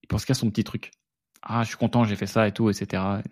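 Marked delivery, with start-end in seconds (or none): 1.4-3.2 lightly voiced smug geek, a bit softer; a hint of a pleased nerd bragging; geek Mbappé voice. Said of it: "un mix de voix de geek et de Kylian Mbappé".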